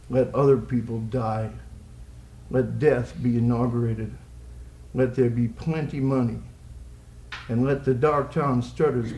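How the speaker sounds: slow, deliberate poem recital; poetry reading. Acted. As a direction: recite it in spaced, measured phrases.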